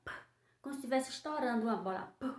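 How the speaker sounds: "P" popped like a bursting balloon; popping P sound. Shown as a demonstration. Teacher showing children the popping P. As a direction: pop the "P" sharply. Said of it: "o P tem um sonzinho assim".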